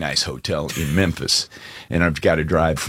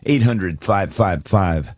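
number read out slowly like a radio ad; call-in ad read. Acted. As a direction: plug the phone line for listeners. Reads phone number call-in.

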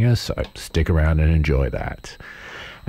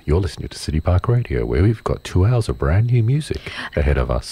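lower, smooth American radio announcer; American public radio host voice; 3 semitones lower than usual. Pretend. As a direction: put on a calm US public radio voice. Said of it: "American public radio host voice".

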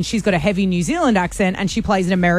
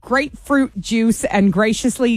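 put-on slow, careful American accent; slower than usual. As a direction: sound kind of American, reading a tongue twister. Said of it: "Sounds kind of American".

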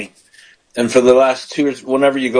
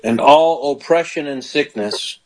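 leading a prayer. Shown as a demonstration. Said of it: "just say this".

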